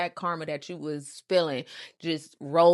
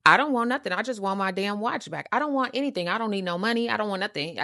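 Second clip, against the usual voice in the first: emphatic refusal of money; insistent retort; 3 dB louder, faster than usual. Retold or imitated. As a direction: push back firmly, raised. Retelling her demands to Charles.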